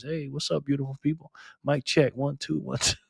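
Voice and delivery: lightly imitated radio DJ; a hint of smooth DJ mic-check patter. Streamer mimics Backpacker's smooth talk, lightly voiced radio DJ. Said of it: "got that radio voice".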